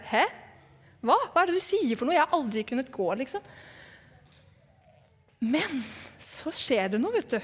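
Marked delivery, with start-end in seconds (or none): 0.1-3.4 baffled questions jumping up in pitch, then settling; mildly startled disbelief. Retold or imitated. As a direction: act a bit taken aback, protesting in confusion. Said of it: "da så mannen litt overrasket ut". (litt overrasket og vantro)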